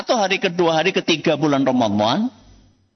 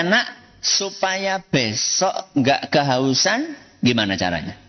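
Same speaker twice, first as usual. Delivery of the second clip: gentle question; 4 semitones lower, slower than usual. Acted. Parent gently asking the child.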